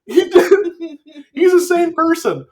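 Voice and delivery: helpless laughter while talking; laughing hard. Real, not acted.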